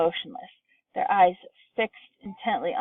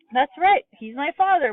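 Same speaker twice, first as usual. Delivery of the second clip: high and louder, distressed; wail; 8 semitones higher, 5 dB louder than usual. A narrator's reading. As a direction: daughter wailing over her father. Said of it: "wailed Missus Bucket".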